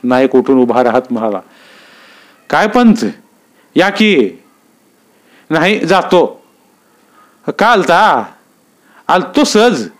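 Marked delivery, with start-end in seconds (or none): 2.5-9.9 higher, friendly rustic voices; village greeting. Acted. Naik welcomes Uddhav Nana, higher lively voice. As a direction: hail a neighbour casually.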